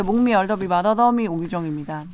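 mushy speech through dental braces; words slurred by an orthodontic device; braces lisp. Real, not acted. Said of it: "교정을 시작해서 발음이 좋지 않아요".

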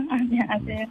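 giggling through hello; stifle a laugh while greeting; trying not to laugh. Real, not acted. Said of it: "웃지 마세요".

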